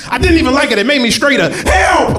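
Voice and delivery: high, frantic begging yell; panicked pleading man. Retold or imitated. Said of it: "and they're like".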